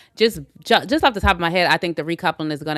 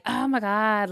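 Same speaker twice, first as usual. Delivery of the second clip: imitating Kata; 4 semitones higher, slower than usual. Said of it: "he was doing her voice".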